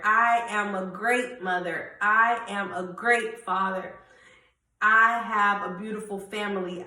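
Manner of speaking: firm declarations, "I" stressed; proclaiming affirmations. Shown as a demonstration. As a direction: declare each line like a promise. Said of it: "start proclaiming".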